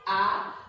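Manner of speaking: A climbing up; rising second tone. Shown as a demonstration. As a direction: slide A up. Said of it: "this one is".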